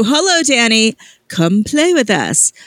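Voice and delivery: put-on British ghost girl. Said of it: "the British accent is scarier".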